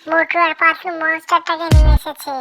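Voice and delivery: loud, startled outburst; excited exclamation. Acted. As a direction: blurt it out in loud amazement. Bird sees the monster arrive.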